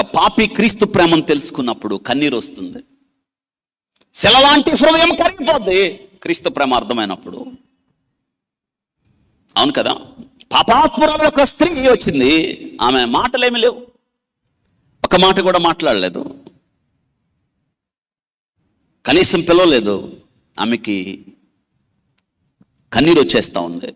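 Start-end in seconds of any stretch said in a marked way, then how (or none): 4.1-7.5 raised, urgent preacher's call; fervent preaching. Acted. Preacher urges the church that hard hearts melt, fervently. 10.5-20.2 high, slow, emphatic preaching. Acted. Preacher stresses to listeners that she spoke no word, slow and emphatic.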